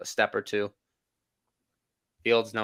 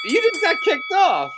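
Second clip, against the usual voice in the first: mock taunt; 6 dB louder than usual.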